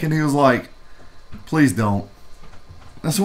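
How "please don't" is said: low, mildly dejected imitation; retold weary plea. Booth guy begging a reviewer off, mildly dejected. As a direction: plead as the reluctant salesman, understated. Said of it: "this look on his face of kind of sadness and confusion".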